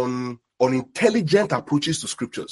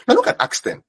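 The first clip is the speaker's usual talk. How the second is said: high, ringing call to turn pages; 14 semitones higher than usual. Real, not acted. Preacher calling congregation to open Acts, high and ringing. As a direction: sing out the instruction. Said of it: "calling the church to scripture".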